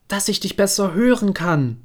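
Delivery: the wolf sweetly faking grandmother. Acted.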